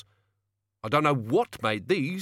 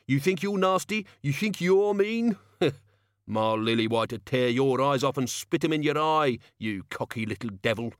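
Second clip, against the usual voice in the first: angry threat; 3 semitones higher than usual. Acted. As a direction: threaten him with the crowbar. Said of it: "he said".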